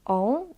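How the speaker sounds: "On" as a nasal O vowel. Shown as a demonstration. Teacher recaps ways to say the letter, nasal O. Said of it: "nasal O".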